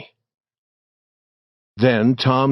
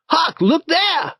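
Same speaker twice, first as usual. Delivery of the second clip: high excited call into the cave, much higher; shout; slower than usual. A narrator's reading. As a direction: call out to Huck in sudden discovery.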